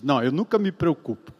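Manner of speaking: levemente imitado, baixo e displicente; mock blasé optimist, low-pitched; alienado positivo. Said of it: "um alienado falando coisas positivas". (alienado falando positivo, em voz baixa)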